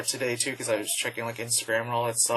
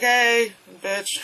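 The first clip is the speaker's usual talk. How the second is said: loud playful greeting; 8 semitones higher, 4 dB louder than usual. Retold or imitated. Calling out to girl at booth.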